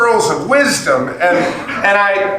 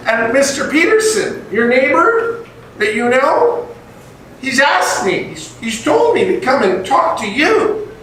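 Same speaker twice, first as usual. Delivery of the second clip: pitched up, a hint of a sweet eight-year-old pitching; lightly voiced eager little boy selling candy; eager kid salesman; 6 semitones higher than usual. Redoes the childhood sales pitch.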